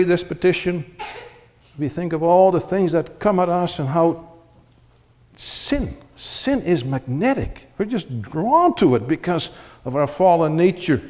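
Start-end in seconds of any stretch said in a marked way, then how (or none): none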